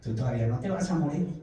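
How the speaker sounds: said with a smile, quick and gentle; smiling voice of God reassuring him. Retold or imitated. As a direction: let a smile into the Lord's words. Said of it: "Pero sonriente".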